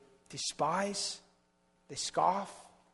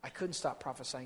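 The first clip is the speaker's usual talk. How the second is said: weary confession; 5 dB quieter than usual. Acted. Jeremiah confessing to God, soft and worn out. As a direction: barely get the words out, spent. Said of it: "And then Jeremiah said".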